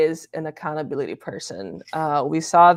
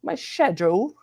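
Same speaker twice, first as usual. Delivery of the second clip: put-on Queen's British accent; 2 semitones higher than usual. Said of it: "the Queen always says".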